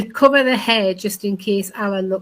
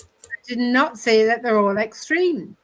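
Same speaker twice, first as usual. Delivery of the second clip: indignant insistence; 3 semitones higher than usual. Real, not acted. Insisting over shouting.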